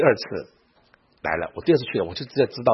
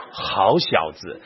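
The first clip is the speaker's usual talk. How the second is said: sly smile; 4 semitones lower, much slower than usual. Retold or imitated. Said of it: "露出诡谲的微笑".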